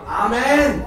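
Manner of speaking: high, loud eager amen; excited amen. Retold or imitated. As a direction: burst out with an amen. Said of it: "tänkte jag".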